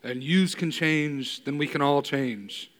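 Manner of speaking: slow, lightly voiced Rocky Balboa; a hint of Rocky's slow drawl; Rocky quote. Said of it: "I get to say in Rocky four".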